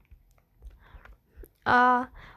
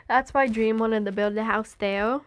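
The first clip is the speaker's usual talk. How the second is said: plain reading voice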